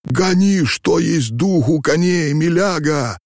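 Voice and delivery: high-pitched, alarmed urging; urgent plea. A narrator's reading. Old man to coachman fleeing robbers, urgent and high. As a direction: beg the driver to race away.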